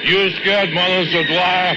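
high mocking taunt; quoting himself. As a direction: tease in a high put-on voice. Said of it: "You hear yourself say".

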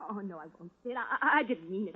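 begging under her breath; hushed frightened plea. Acted. Woman pleads with Sid not to hurt her, hushed and afraid.

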